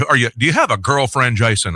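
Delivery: a hint of the old GM quizzing you; imitated station manager. Manager quizzing young host about a girlfriend, lightly imitated boss voice. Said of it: "that's how he talked".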